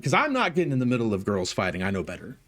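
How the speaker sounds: ordinary talk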